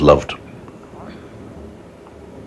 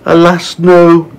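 high, loud mock lament; high-pitched, theatrical sigh of woe; sighing spider; 10 semitones higher, 4 dB louder, slower than usual. A narrator's reading. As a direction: lament it like a hard-done-by storybook spider. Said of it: "sighing long and loud".

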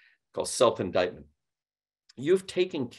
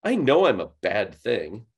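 mock self-indictment; 5 dB louder than usual. Shown as a demonstration. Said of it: "call somebody up on the phone and say".

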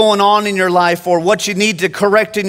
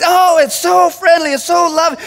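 put-on much higher, delighted old lady voice; happy old lady; 8 semitones higher than usual. Preacher voices Miss Ruth loving the church, high and delighted. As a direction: gush like a sweet elderly churchgoer. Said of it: "She's like".

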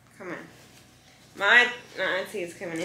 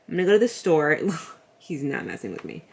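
ordinary talk

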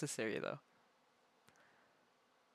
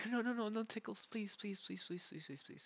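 tickle attack; 5 semitones higher, 5 dB quieter than usual. Real, not acted.

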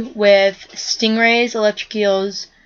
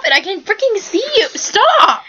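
yelling; 11 semitones higher than usual. Real, not acted. Startled by camera friend.

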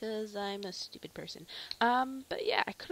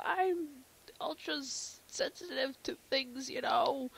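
lightly nasal sick character voice. Acted. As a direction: pinch the sound through the nose. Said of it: "really nasally voice".

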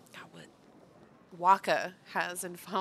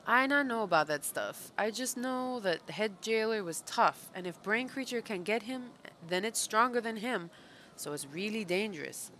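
a hint of a pit dweller giving warning; lightly voiced pit creature; 4 semitones higher than usual. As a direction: lightly act out a wary underling. Reads game character's dialogue aloud.

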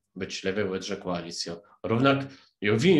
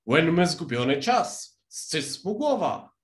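raised, higher cry of outrage; mild shout; 7 semitones higher, 4 dB louder than usual. A narrator's reading. Queen cries out at the Hatter's singing, mild shout. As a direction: call out the sentence like a queen, moderately loud. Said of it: "czej królewo krzyknęła".

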